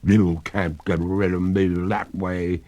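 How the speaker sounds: lightly otherworldly lady ghost, smug; a hint of a ghostly lady, teasing; calm phantom voice with a touch of spookiness. A narrator's reading. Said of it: "returned the ghost".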